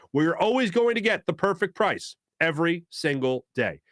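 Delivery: upbeat host-read jewelry spot; radio sponsor pitch, lifting toward the end. Real, not acted. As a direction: sell it with punchy, repeated emphasis.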